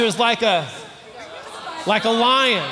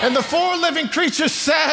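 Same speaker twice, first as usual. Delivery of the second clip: higher and louder call for a response; louder cue to the crowd; 6 semitones higher than usual. Shown as a demonstration. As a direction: call them out to answer louder. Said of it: "repeats the cue to get a louder Amen".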